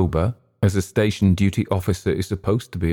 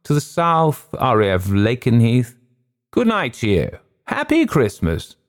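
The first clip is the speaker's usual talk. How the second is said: slow, higher, deliberate answers; equally slowly; 5 semitones higher than usual. A narrator's reading. Wing commander slowly naming stations to the pilot. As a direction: spell out each station, unhurried. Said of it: "he said equally slowly".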